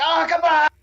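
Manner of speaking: high, shouted Joker voice; Joker impression. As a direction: yell it like a manic Joker. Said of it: "He's like".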